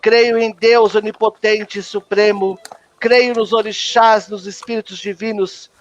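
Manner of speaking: measured, solemn creed recitation; recited creed. Acted. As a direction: recite each belief as a formal prayer. Recita o credo da Umbanda. (credo recitado com solenidade)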